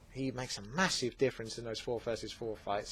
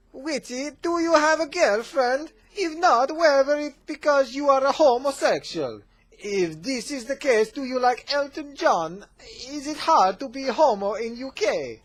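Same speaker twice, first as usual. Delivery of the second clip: much higher and louder, a hammed-up Kazakh accent; Borat's voice; 13 semitones higher, 9 dB louder than usual. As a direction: play Borat asking cheeky questions in a thick Kazakh accent. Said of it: "Borat's voice, or try to".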